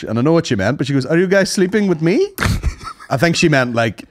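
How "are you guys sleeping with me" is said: put-on higher-pitched broken English, Brazilian accent; imitated Brazilian accent. Brazilian woman asking two men walking along, imitated Brazilian accent. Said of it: "She said it in very broken English".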